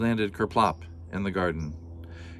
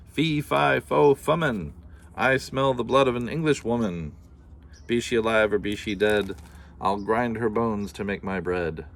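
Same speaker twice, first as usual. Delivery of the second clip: menacing giant. Acted. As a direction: boom the rhyme as the giant. Giant chants the threat again.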